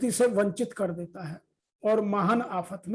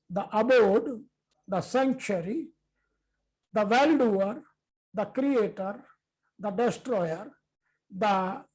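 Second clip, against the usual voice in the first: solemn scripture recitation, each epithet its own line; verse recitation; much slower than usual. Acted. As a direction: lay out every title of the Lord with a pause between. Second translation read out. (श्लोक का ठहर-ठहर कर गंभीर पाठ)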